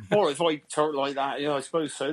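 put-on Gloucester West Country burr; broad-vowelled Gloucester accent. Shown as a demonstration. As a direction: talk like a Gloucester local. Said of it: "with a Gloucester accent".

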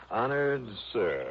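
put-on slow, grand old-fashioned reading; grand tragic wailing. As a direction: read it like an old ham actor. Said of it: "Sounds like an old Shakespearean actor".

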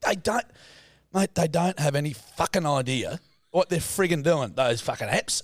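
worked-up retold grumble; mock exasperated dad. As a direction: imitate a dad ranting at technology. Retelling dad's rant against map apps.

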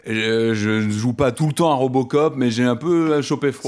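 metallic voice from a cold; robot voice. Real, not acted. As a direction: sound like a husky robot with a cold. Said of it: "j'ai la voix de Robocop".

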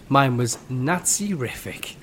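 slow, badly faked German accent; comic German accent; loose German accent. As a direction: draw out the pun in mock German. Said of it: "No idea where I'm going with this accent".

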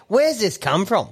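high, drawn-out mock puzzlement; retold bafflement. Man retelling a sudden urge at Bunnings, mock baffled. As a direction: pitch it up slowly, imitating your puzzled self.

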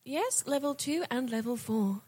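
slow, even elevator announcer voice; elevator announcement. Acted. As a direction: announce the floors like a lift. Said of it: "I love that you do that in the elevator voice".

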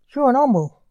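loud, disgusted accusation. Acted. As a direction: spit it out in disgust.

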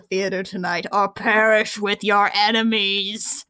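slow, lightly put-on menacing voice; villain's threat. Host quoting the villain's note, slow mock menace. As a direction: deliver a slow, mock-ominous warning.

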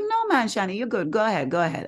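lightly imitated carer insisting it's fine; carer's voice. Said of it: "So she's like".

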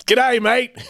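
high, hammed-up Australian accent; mock Australian accent. Husband quotes a Dumb and Dumber line in mock Australian accent. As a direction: play a jokey Australian from a movie, in Australian accent. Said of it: "quote the one from Dumb and Dumber".

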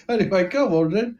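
a hint of a put-on Cockney gangster, quick; brushing off the laugh in a light Cockney voice; East End gangster. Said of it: "gonna have trouble with this accent".

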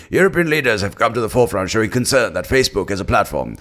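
news-anchor read in BBC English; BBC presenter read. Shown as a demonstration. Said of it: "that's a B B C way of saying it".

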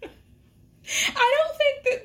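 slow, talking through laughter; can't stop giggling while speaking; real amused laugh in the words. Real, not acted. Host laughing through commentary.

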